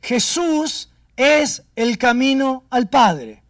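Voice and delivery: slow, weighty words of the Spirit; a hushed, slow divine message; slow solemn quote. Retold or imitated. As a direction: lay each word down slowly and gravely. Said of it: "Y me dice".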